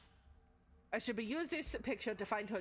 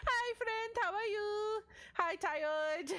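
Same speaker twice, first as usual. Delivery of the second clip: cheerful greeting; 11 semitones higher, much slower than usual. Real, not acted. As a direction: chirp a hello to a friend. Greeting chatters.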